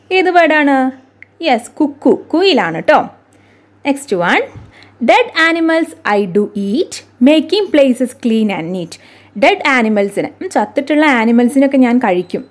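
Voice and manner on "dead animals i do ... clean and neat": slow, measured verse recitation; riddle reading. Acted. Teacher reads a bird riddle to pupils, slow recitation. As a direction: read each line deliberately, with swinging intonation.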